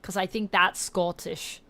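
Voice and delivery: put-on self-conscious Scottish accent. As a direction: try Scottish, unsure it lands, maybe Liverpool. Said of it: "What is this dialect I'm doing?".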